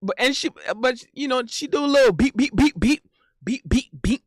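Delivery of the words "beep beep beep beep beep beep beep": short, punchy "beep" jabs; playful boxing sound effects; mimicked punch noises. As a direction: pop out each "beep" like a jab. Imitates little boxing punches.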